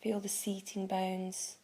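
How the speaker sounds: calm guiding voice with long pauses between phrases; guided meditation. Acted. Meditation teacher guiding listeners to tune in to the body, calm guided meditation. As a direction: ease them into the practice, unhurried.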